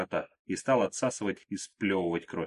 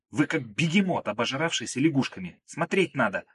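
put-on young woman scolding a clumsy companion, annoyed and raised; angry scolding; 5 semitones higher than usual. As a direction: tell him off sharply for stepping on her. Margo snaps at clumsy Krot.

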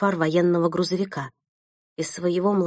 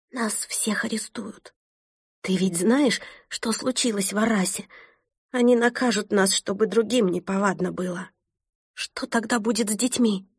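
trembling whisper; 2 semitones higher than usual. Acted. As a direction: whisper it in fear, pleading. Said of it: "дрожащим голосом прошептала Элен".

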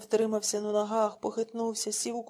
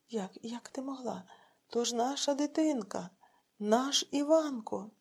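slow pleading grief; husband begging his wife in despair; 2 semitones higher, slower than usual. Acted. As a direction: break on the child's name. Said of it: "у відчаї скрикнув Іван".

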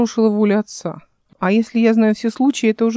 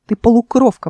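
contemptuous; 2 semitones higher, 3 dB louder than usual. Acted. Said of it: "презрительно сказала она".

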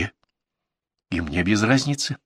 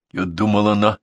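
plain reading voice

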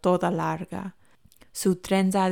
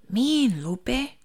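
sighing; 6 semitones higher than usual. Acted. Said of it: "suspira Jess".

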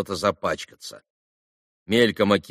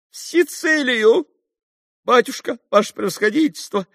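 much higher, louder dismay; captain losing his head; lost and bewildered; 4 dB louder than usual. A narrator's reading. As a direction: cry out in helpless confusion. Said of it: "потерялся штабс-капитан".

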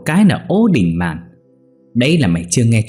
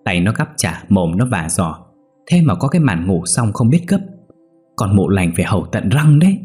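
scornful; 3 semitones higher than usual. Acted. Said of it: "khinh khỉnh đáp".

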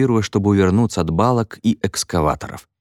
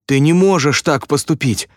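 exclaimed; 7 semitones higher than usual. A narrator's reading. Danny protesting being fired by the foreman, exclaiming. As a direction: protest in disbelief. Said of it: "воскликнул Дэнни".

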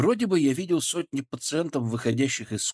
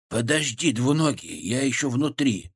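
muffled voice. Acted. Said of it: "Голос бурундука звучал приглушённо".

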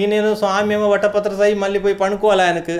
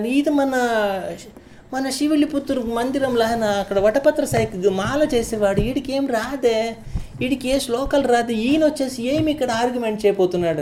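mocking scholars; 5 semitones higher than usual. Scholars mock the garland maker.

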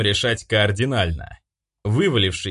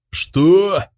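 much louder, higher shocked shout; shout into phone; 9 semitones higher, 7 dB louder than usual. A narrator's reading. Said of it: "заорал я в трубку".

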